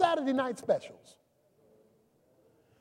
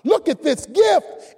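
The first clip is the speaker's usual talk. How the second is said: amazed exclamation; 2 semitones higher, 7 dB louder, much slower than usual. Retold or imitated. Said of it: "And you say".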